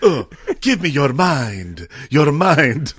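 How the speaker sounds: slow, hammy monster plea; mock lustful mummy. Mummy begging princess for her mind, mock lustful. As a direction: groan it out slowly as a hammed-up mummy.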